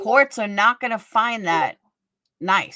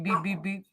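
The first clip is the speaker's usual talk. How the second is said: imitated beeping; 8 dB quieter than usual. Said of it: "I hear the beep".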